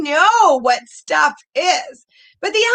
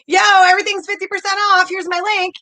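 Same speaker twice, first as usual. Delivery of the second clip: pushy sales pitch. Retold or imitated. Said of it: "you're not just like".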